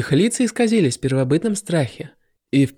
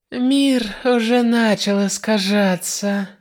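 pleased; 5 semitones higher, slower than usual. Acted. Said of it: "довольным тоном произнесла Мерсис".

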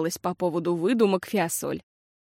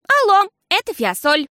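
put-on loud, clear girl's voice, higher; громко и отчётливо; 12 semitones higher, 8 dB louder than usual. A narrator's reading. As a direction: announce yourself loudly into the phone. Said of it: "сказала она громко и отчётливо". (громко и отчётливо)

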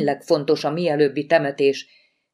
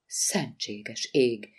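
shocked exclamation; 4 semitones lower, 8 dB quieter, much slower than usual. Acted. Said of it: "kiáltott fel Lori".

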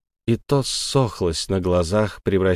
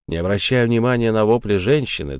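plain reading voice

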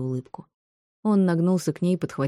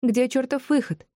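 high, slow exasperated question; high-pitched annoyance; seething demand; 9 semitones higher than usual. A narrator's reading. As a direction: demand it, stretching the words. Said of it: "закипала Софи".

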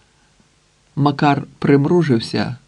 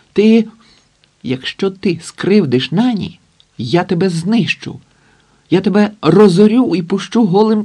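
falsetto shout; 5 semitones higher than usual. Acted. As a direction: shriek it out in a cracking high voice at a rival. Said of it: "раптом закричав фальцетом".

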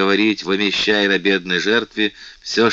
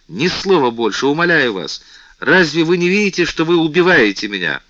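high and loud, begging him to stop; desperate pleading; 8 semitones higher, 5 dB louder than usual. A narrator's reading. Louise begging the king to stop, in anguish. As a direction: plead as if his words wound her. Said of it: "воскликнула в полном отчаянии Лавальер".

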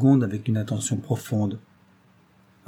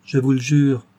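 a bright sworn promise, higher and louder; bursting into laughter; 4 semitones higher, 6 dB louder than usual. A narrator's reading. Claire promising Brun, laughing out loud. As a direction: swear it while breaking into laughter. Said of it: "répondit-elle en éclatant de rire".

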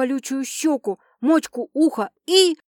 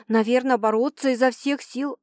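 ordinary talk, nothing marked

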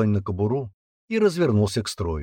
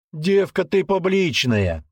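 mocking jab; 8 semitones higher, 3 dB louder, slower than usual. Soldier joins the mockery.

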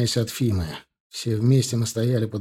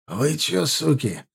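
put-on hoarse old man; 4 semitones higher, slower than usual. A narrator's reading. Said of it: "раздался хрипловатый голос Степаныча".

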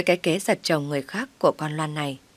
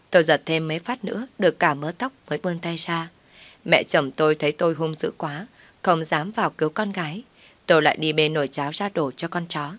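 plain reading voice

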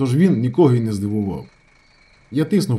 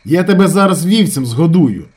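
loud, raised threat; shouted threat; 6 semitones higher, 6 dB louder than usual. A narrator's reading. Andriukha threatens the accountant, loud. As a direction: threaten him, voice up.

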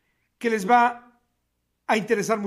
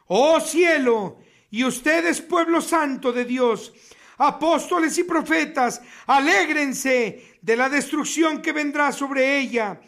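solemn preacher's reading, steady and grave; weighty sermon reading; preaching scripture; slower than usual. Acted. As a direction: proclaim the doom over the city. Reads Revelation verse aloud.

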